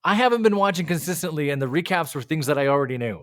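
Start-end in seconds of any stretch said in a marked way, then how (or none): none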